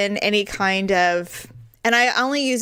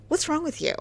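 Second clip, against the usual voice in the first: retold exasperation; 7 semitones higher, 6 dB quieter, faster than usual. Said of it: "I get really mad at him".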